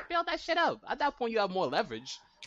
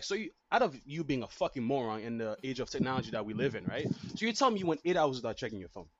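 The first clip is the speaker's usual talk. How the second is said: ranting blowup; 3 semitones lower than usual. Retold or imitated. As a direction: go off on them, building heat. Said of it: "Versus be like".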